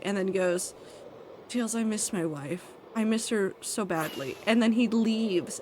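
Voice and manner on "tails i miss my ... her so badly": a touch of sad, sighed and quieter; a hint of a sad defeated hedgehog; mock sad sigh. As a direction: sigh it out like a beaten hero missing his wife. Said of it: "he just sighs so sadly".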